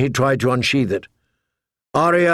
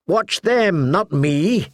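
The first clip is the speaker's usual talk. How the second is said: screaming; 4 semitones higher, slower than usual. A narrator's reading. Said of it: "she screamed at Hot Pie".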